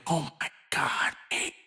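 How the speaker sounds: low, slow mock amazed voice; a lightly voiced awed burger eater; imitated listener. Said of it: "and you're like".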